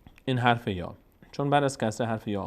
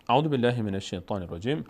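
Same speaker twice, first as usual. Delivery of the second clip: Quran recitation; 3 dB louder than usual. Shown as a demonstration. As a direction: open the recitation with careful, lengthened vowels.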